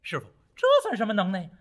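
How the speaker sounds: 略抬高嗓门自夸; 孙悟空向师父夸耀本领; 得意夸口. Acted. 悟空向师傅夸口. (带几分得意地吹嘘)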